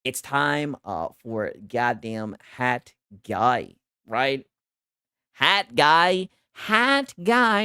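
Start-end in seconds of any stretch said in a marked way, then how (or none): 5.3-7.6 excited hype call; hype shout. Real, not acted. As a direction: call it out like an announcer. Hyping the stream segment.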